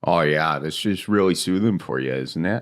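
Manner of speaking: lightly voiced Midwest accent. Shown as a demonstration. Host teasing guest, soothing Midwest accent. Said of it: "Do you like the Midwest accent".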